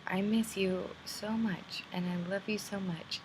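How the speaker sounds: tearful. Real, not acted. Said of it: "sorry for the emotional meltdown".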